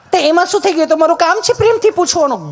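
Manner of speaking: high, sugary nurse voice; mock sweet nurse. Nurse sweetly reassures the nervous patient, high mock-sweet voice. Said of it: "nurse બેન".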